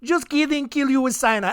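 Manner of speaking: high-pitched, badly faked French serial killer accent; dubious French accent. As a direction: do a bad, unsure French accent. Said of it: "I don't know what accent that is. French".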